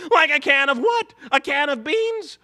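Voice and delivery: Shaggy talks back to the host. Acted. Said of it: "is that all you think about is frickin' food".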